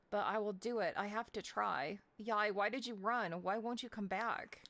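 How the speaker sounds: lightly voiced in-game monologue; reading game dialogue. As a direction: read the character's lines with mild feeling. Reading the game's dialogue aloud.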